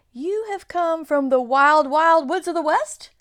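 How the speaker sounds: high flustered faun; flustered fawn. Acted. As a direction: bluster like a nervous faun. Fawn dialogue.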